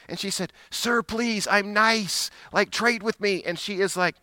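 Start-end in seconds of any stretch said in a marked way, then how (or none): 0.7-3.4 put-on pleading girl. Teen girl begging to trade.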